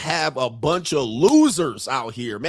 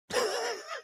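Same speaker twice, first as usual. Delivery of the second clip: sudden squeaky high-pitched laugh; high cackling laugh; 11 dB quieter than usual. Real, not acted. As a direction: burst into a high wheezy giggle. Laughs after the flirt line.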